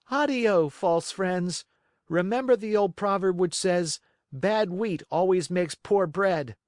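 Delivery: high, firm dismissive farewell; scornful puppet. Acted. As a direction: turn them away with scorn. Pinocchio rebuffs again.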